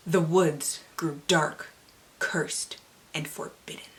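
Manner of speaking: slow, hushed spooky whisper; ominous whisper. Acted. Reader describing the cursed woods, slow spooky whisper. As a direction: hush it like a campfire tale. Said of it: "dramatic readings".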